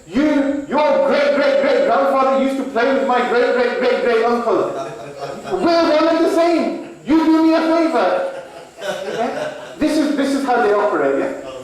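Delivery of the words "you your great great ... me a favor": high, gushing elder voice, laughing; butter up the lawyer with laughter; flattering elder. Retold or imitated. Elder Pakistani client flattering his lawyer, high and laughing.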